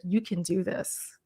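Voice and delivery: soft, slow reassurance; gentle coaching murmur; calm encouragement. Shown as a demonstration. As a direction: quietly tell them they can do it. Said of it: "I'll even tell them in the video".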